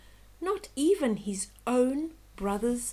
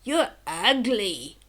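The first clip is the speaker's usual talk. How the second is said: mocking taunt; 6 dB louder, slower than usual. Birds tease the duckling.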